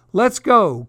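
high rallying cry; crowed call. A narrator's reading. Rooster joins his panicking friends, crowed rallying call. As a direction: crow it out, raring to go. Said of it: "crowed Cocky Locky".

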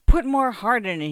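high, loud outburst; mildly acted emotional outcry; crying out. A narrator's reading. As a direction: cry out with sudden force. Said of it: "he cried out as his voice broke".

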